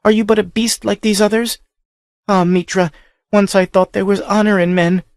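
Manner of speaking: high, bitter whispered rage; hushed fury. A narrator's reading. Captive girl berating the barbarian, whispered rage. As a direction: scorn him without raising the voice. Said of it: "screamed in a ghastly whisper".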